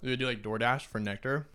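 talking while chewing boba; mouth full. Real, not acted. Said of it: "Sorry, I'm chewing boba".

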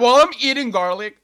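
loud, quick, laughing tease. Real, not acted. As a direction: blurt it out laughing. Teasing punchline, laughing.

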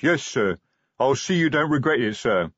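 eager troll with a lift in pitch; lightly voiced grateful troll; beaming troll. A narrator's reading. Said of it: "The troll beamed".

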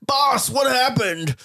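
loud, slow henchman call; shouting henchman. Acted. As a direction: call out to the boss. Henchman calling out.

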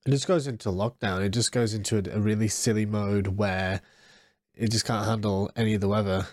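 stuffy, bunged-up nasal voice; blocked nose. Real, not acted. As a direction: talk through a blocked nose. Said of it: "you can probably hear it in my voice".

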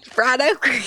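Fried okra, lightly Southern; Southern grandma accent. Retold or imitated. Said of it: "how my grandma says okra".

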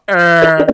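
a loud, dopey "uh" like a blank face; derpy grunt. Retold or imitated. Recalling a friend's old vine, a loud dopey grunt. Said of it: "doing the derpiest face".

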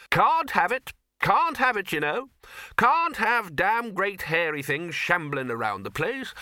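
high, loud, firm objection. A narrator's reading. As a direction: put your foot down with bluster. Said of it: "said the Arch-Chancellor firmly".

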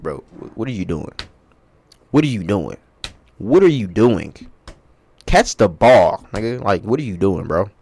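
exasperated sideline scolding, mock-angry; Patrick Mahomes. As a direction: act out a fed-up quarterback berating receivers. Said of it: "how to talk in Patrick's voice".

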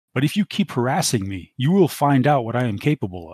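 mild sharp rebuke. Acted. Kimmy on the comm to Dante, sharply. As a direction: firmly put him in his place. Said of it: "she cuts in sharply".

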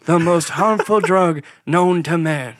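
lightly voiced president at a press conference; a hint of stately politician impression; Ronald Reagan. Quoting a press conference, lightly imitated president. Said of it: "that Ronald Reagan real quote".

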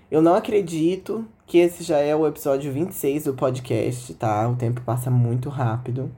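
hoarse from an inflamed throat; sore throat voice. Real, not acted. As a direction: speak through a sore throat. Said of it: "minha voz, ela tá um pouquinho diferente".

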